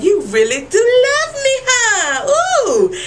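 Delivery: high, flirty, laughing tease; mock-smitten Pam; playful Pam. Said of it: "Pam's like".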